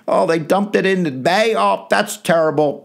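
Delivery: high, lightly voiced shrugging official; hammed-up fake sympathy from Parliament; mock indifferent Parliament. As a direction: play the Parliament as not caring at all. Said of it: "the British Parliament's not gonna be like".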